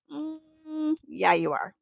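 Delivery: a teasing, knowing reply; spirit guides' voice. Retold or imitated. Guides overruling her vacation plans, lightly voiced and amused. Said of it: "And they were like".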